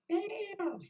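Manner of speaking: high, loud, stretched-out "damn"; long high holler; drawn-out exclamation. Retold or imitated. Sitting on curb, calling out.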